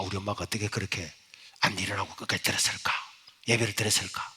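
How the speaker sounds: soft, whispered marvel; quiet wonder. Retold or imitated. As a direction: wonder to yourself in awe. Inner wonder. (혼잣말처럼 속삭이는 놀라움)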